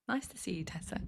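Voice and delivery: soft unvoiced whisper of a greeting; hushed, breathy greeting aside. Real, not acted. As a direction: whisper the hello so it barely carries. Greets viewer while off mic.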